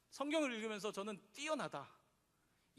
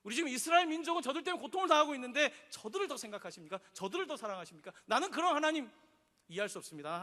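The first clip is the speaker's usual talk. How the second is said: resentful complaint. Retold or imitated. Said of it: "그때 요나는 또 화가 나는 거예요".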